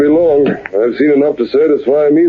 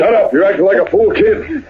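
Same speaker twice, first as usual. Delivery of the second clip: irritated snap; 6 semitones higher than usual. Acted. Partner snaps at excited Bob.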